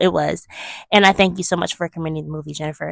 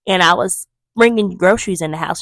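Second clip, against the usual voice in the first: ordinary delivery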